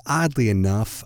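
ordinary delivery

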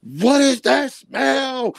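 mock wife, rising high, the last question stretched slow; imitating his wife. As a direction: play the disgusted wife. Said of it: "his wife would be like".

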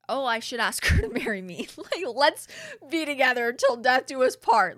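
mock his big romantic idea, building in volume; mock romantic proposal. Mocking his imagined decision to propose.

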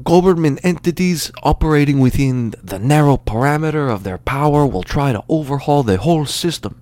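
put-on singsong Cuban-accented speechifying; Cuban teacher. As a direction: imitate a Cuban man's flash of eloquence. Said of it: "this burly Cuban guy".

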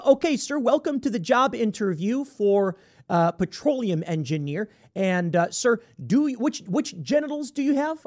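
hint of an awkward official voice; job interviewer. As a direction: play a mock-courteous interviewer, halting over the question. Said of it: "imagine this scenario".

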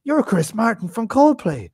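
high, slow mock awe; amazed pub stranger. Drunk man naming the singer he thinks he sees, mock amazement. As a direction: draw it out like a starstruck drunk.

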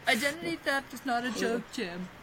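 mock-indignant quote. Host quoting The Office to co-hosts, mock-indignant. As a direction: act out an exasperated complaint.

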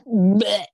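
loud retching bleh; disgusted retch sound; gross gag noise. Real, not acted. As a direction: gag like you're about to vomit. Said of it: "a gross noise".

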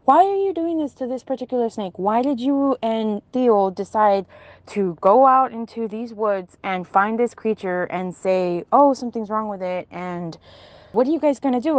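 retold barrage of confused questions; acting out a bewildered interrogation; bombarding questions. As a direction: fire questions one after another, mildly worked up. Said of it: "I start bombarding my aunt with a million questions".

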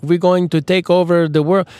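half Mexican, half Transylvanian villain voice; mock villain accent. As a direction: ham up a cartoon world-conqueror accent. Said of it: "That was a little bit, like, Mexican, but kind of Transylvanian".

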